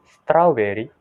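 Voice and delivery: "strawberry" said "strau-berry"; "strawberry" with "ow" vowel, rising; Indonesian-style "strawberry"; Indonesian pronunciation. Shown as a demonstration. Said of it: "See the difference from".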